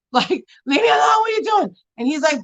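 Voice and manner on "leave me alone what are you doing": high, wailing mock protest; hammed-up tearful complaint; retold crying. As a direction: act out crying at a partner to back off. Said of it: "I was crying".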